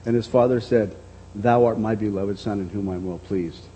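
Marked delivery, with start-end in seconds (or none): 1.3-3.6 hushed Father's voice. Acted. Father's words recalled a third time.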